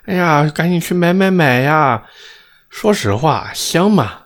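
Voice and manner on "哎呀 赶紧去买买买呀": mocking gushing hype. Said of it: "他们说".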